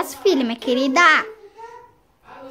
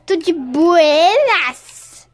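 "Tudo de buenas?" stretched slow and louder; drawn-out cool greeting; 6 dB louder, much slower than usual. Pretend. Greeting the kids at the square, slow, loud and cool. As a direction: lay on the laid-back swagger. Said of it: "greets children slowly".

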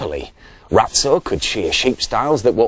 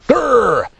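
growl; 13 semitones higher, 6 dB louder than usual. A narrator's reading. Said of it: "added Fang".

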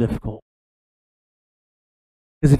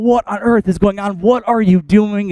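raised, exasperated yell, not at full force; mock yelling; 6 semitones higher than usual. Moses to the people at the golden statue, mock yelling. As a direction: act out an outraged telling-off. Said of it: "starts to yell at people".

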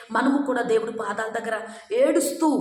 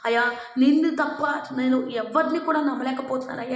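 begging prayer; faster than usual. Retold or imitated. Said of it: "దేవుణ్ణి బ్రతిమలాడుకుని".

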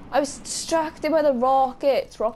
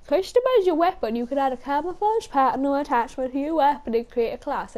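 yawning while reading; 3 semitones higher than usual. Real, not acted. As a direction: read aloud mid-yawn. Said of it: "I did that while yawning".

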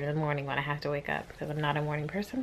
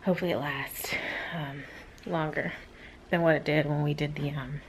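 whispering; 2 semitones lower, 5 dB quieter than usual. Real, not acted. Talking at 2am while others sleep.

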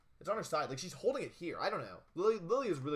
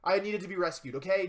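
mock confession; 4 semitones higher, 7 dB louder than usual. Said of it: "make me say it again".

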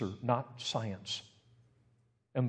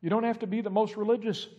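1 God's voice; 11 semitones higher, 6 dB louder than usual. Retold or imitated. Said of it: "I have a God that looks at me and says".

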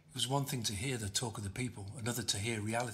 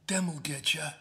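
high, louder crone sing-song; sing-song old woman; 6 semitones higher, 5 dB louder, slower than usual. A narrator's reading. Old woman taunting passers-by, high sing-song. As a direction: croon it like a mad old woman. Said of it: "the old woman sang".

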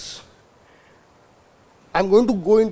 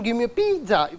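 Italian pronunciation; 3 dB quieter than usual. Acted. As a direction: play up the Italian stress on "pizza". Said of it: "that's the way Italians speak it".

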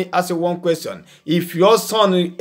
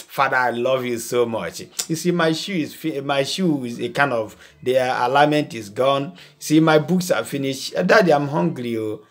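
put-on polite flattering child; 3 semitones lower than usual. Humble son flattering his father before asking, lightly voiced. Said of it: "he will come to you".

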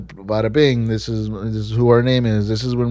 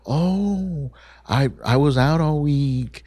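feigned innocence; 3 semitones higher than usual. Retold or imitated. Acts out office person's excuse.

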